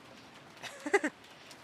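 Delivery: real giggle after teasing; amused laugh. Real, not acted. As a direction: let out a short real laugh. Amused after joking about Natsu.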